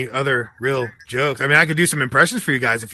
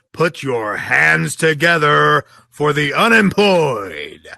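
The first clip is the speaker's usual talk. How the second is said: slow, drawn-out, getting louder on the last word; announcer build-up; 4 dB louder, slower than usual. Acted. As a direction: stretch it out like a ring announcer. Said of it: "ladies and gentlemen".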